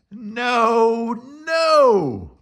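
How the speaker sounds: loud, high roared no; roaring. A narrator's reading. Boris roaring at Morris, loud and high. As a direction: roar it out like an angry moose. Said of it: "Boris roared".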